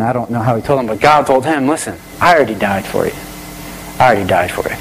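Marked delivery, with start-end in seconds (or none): 1.7-4.8 lightly voiced God, pitched low. Preacher retells God answering a praying man, lightly voiced God. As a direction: drop low for God's quiet, firm answer. Voicing God's answer in a story.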